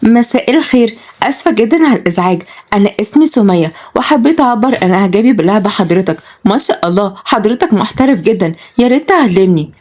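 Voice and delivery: mildly gushing woman introducing herself; polite, admiring lady. Acted. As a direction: lift the voice a little to flatter him. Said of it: "لشلش بإعجاب".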